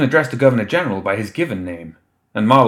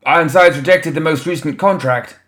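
higher, louder staffer's shout; 7 semitones higher, 6 dB louder than usual. A narrator's reading. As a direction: shout the news across the table.

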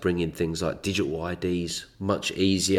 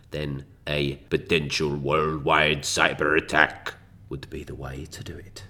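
ominous whisper; 3 semitones lower than usual. Acted. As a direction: let it fade into a dark whisper. Dramatic conspiratorial build.

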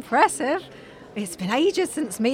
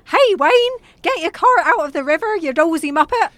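mock shout; 2 semitones higher than usual. Mum guessing at a painted man's words, mock shout. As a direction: imitate a man yelling, without full volume. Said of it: "looks like he's shouting".

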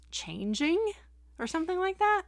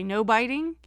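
lightly imitating a talking pet bird, louder; Snips; 3 semitones higher, 6 dB louder than usual. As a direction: echo the phrase like a bird, lifting at the end. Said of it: "He'll say".

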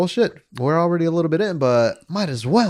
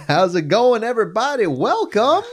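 high, loud ghostly greeting; spooky voice; 9 semitones higher, 4 dB louder than usual. Acted. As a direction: wail it like a ghost. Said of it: "least spooky voices".

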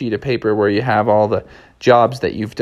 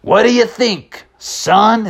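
high southwestern cowboy drawl; lifted, drawling lawman voice; Mister Mustang; 9 semitones higher, much slower than usual. Acted. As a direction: prod them like an old western sheriff. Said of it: "Mister Mustang said".

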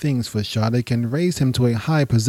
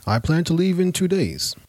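higher, light-toned reply; Hussein answering; 6 semitones higher than usual. Acted. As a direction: answer simply.

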